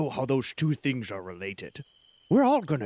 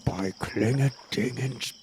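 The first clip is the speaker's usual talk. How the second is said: solemn oath; 4 semitones lower, slower than usual. Acted. Solemn religious oath, slow.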